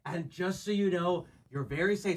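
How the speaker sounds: very high falsetto, rising to a demand; hammed-up stalker falsetto; creepy man voice. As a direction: hush her with false calm. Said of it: "He said".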